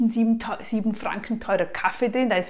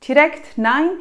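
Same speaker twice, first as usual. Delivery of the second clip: „Nein“ laut und hoch herausgestoßen; „Direkt Nein“ mit Nachdruck auf „Nein“; betontes Nein; 5 semitones higher, 7 dB louder than usual. Shown as a demonstration. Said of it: "wenn du direkt Nein sagst". (klares, betontes „Nein“)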